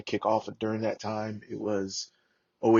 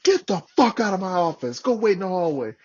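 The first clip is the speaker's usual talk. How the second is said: loud, raised mock-angry order; cussing out; 8 semitones higher, 5 dB louder than usual. Sergeant major ordering Marine out of his office, imitated angry shout. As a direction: imitate a superior throwing someone out. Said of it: "He's cussing us out".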